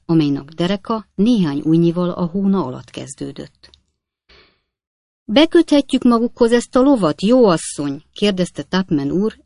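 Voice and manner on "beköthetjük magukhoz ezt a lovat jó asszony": high, loud, ingratiating request; raised, sweetly polite appeal; most affable voice. A narrator's reading. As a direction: coax her as amiably as you can. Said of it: "lehető legnyájasabb hangon".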